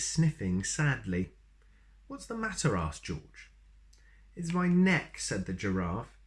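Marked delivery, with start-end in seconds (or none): 2.1-2.7 concerned question. Acted. George asks a sad giraffe. 4.3-5.2 giraffe voice. Acted.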